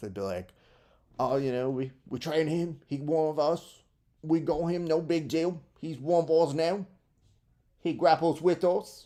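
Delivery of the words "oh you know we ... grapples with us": terrible put-on Cockney accent, pitched up. Imagining what they would say about him, bad Cockney accent. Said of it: "in their Cockney accents".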